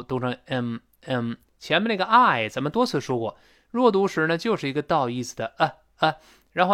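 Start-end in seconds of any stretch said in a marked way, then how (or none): 0.5-1.3 "M M" as a short reduced "um"; weak form of I'm. Shown as a demonstration. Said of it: "I'm在这儿弱读".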